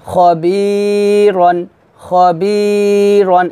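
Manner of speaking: খবিরন slowly, with "bee" held long; short খ, long বি, short রন in খবিরন; careful model recitation. Shown as a demonstration. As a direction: stretch only the middle of খবিরন. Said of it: "এভাবে সুন্দর করে উচ্চারণ করবেন".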